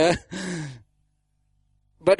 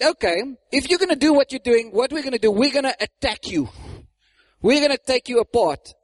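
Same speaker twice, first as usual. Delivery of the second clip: threatening; 5 semitones higher than usual. Acted. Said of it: "They started to threaten them".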